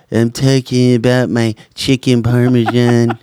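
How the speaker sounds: lightly mocking politician impression; put-on voice, poking fun; mock a rambling politician; Joe Biden. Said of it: "between Joe Biden".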